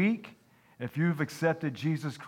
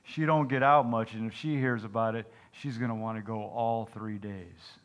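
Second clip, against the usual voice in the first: dull, flat farmer voice; deadpan, no interest at all; monotone voice. Acted. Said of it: "in a monotone voice".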